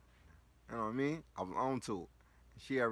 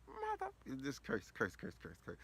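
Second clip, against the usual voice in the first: mock cursing mom; 4 semitones higher, 4 dB quieter than usual. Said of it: "Mom Dukes was like screaming".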